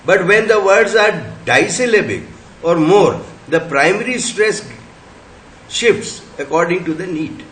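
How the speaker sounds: slow, deliberate reading of the rule; slow dictation reading. Shown as a demonstration. Teacher reading a phonetics rule aloud to the class, slow and deliberate. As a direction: read it out slowly for students to copy.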